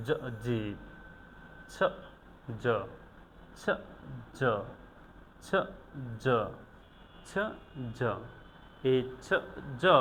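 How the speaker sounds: "ছ" and "জ" one at a time, with pauses; phoneme drill. Shown as a demonstration. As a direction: drill "ছ" against "জ" as isolated sounds. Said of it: "কিভাবে এই দুইটা ফনেমসকে উচ্চারণ". ("ছ" আর "জ" থেমে থেমে আলাদা উচ্চারণ)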